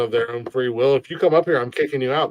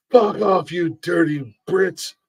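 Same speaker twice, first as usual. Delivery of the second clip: mock patriotic jeer; 4 semitones higher, slower than usual. Play-acted jeer at the British.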